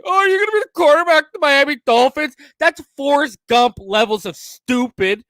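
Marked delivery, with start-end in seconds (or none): 0.0-2.3 mocking reporter. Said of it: "don't just sit here asking".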